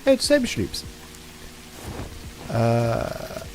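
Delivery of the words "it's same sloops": put-on Swedish accent. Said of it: "can only be said in a Swedish accent".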